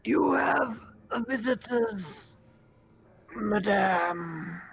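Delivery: high, drawn-out creature voice; wraith's call. Acted. Dying wraith announcing visitors to its mistress, high drawn-out call. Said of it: "call out, and it says".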